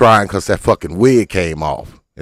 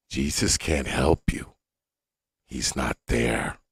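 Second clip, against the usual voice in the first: low, soft deadpan put-down; 11 semitones lower, 10 dB quieter than usual. Real, not acted. Comic tells the woman Jesus won't help, low soft deadpan. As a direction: drop your voice to a cold aside.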